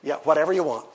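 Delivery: low, soft, giving-in reply; melting, easygoing grandfatherly murmur; indulgent grandpa. Retold or imitated. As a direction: imitate a doting Papa who can refuse nothing.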